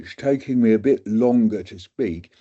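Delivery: slushy S sounds, a bit slow and heavy; mock-slurred, sluggish reading voice; slurred slow speech. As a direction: imitate your own dragging slurred voice. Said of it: "I'm now imitating me doing it".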